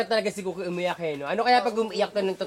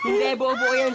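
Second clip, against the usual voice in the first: loud, raised pitch insistence; shouting; 4 semitones higher, 5 dB louder than usual. Real, not acted. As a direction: insist loudly and high. Arguing over how to eat.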